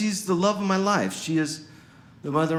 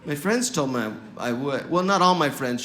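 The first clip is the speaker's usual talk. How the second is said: normal talking voice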